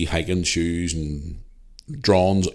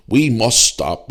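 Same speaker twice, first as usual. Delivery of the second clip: mock slogan; 3 semitones higher, 5 dB louder, much slower than usual. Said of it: "What was it he said?".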